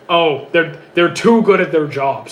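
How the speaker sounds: mildly mocking fan complaint; put-on complaint, lightly exaggerated; mock complaining. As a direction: imitate someone griping, stress on "too". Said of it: "Stop complaining that they're too good".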